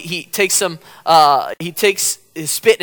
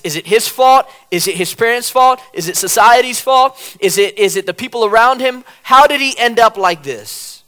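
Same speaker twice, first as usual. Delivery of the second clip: puzzled questioning; 3 semitones higher, 5 dB louder than usual. Retold or imitated. Disciples questioning Jesus, acted.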